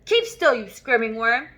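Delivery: angry snap. Acted. Headmistress snapping at the squirming boy, loud.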